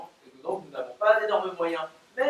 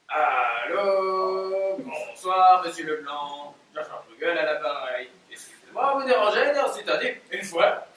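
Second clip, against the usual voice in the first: hammed-up Belgian accent with "une fois"; mock Belgian accent, caught between laughs. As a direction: fake a Belgian producer's accent. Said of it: "je prends l'accent belge".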